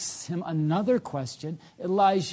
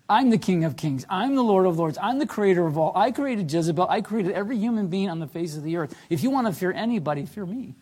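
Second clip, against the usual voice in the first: stern, forceful declaration, louder on each claim at first; stricter God; 3 semitones higher, 5 dB louder, faster than usual. Acted. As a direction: assert absolute authority in a raised, driving voice. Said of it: "He's being a little more stricter".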